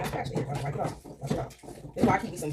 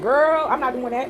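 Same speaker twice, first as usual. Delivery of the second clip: retold refusal; 5 semitones higher, 4 dB louder, much slower than usual. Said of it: "and I said".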